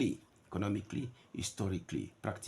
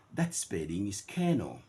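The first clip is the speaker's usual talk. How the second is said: "kernel" in British RP, no R sound. Shown as a demonstration. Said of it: "in the R P".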